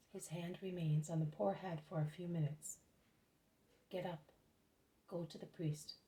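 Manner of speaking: measured, reverent storytelling voice; story narration. A narrator's reading. Reads a religious story aloud.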